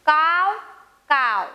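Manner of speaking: two caws, first rising, second falling; crow call. Shown as a demonstration. Teacher voicing crow for pupils to repeat, up-down caws. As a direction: imitate a crow cawing. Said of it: "माझ्या मागं म्हणायचंय".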